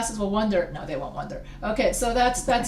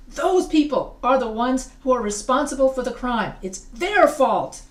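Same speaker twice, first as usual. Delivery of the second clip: acted accusation; 2 semitones higher, 4 dB louder than usual. Acted accusation with plural pronoun.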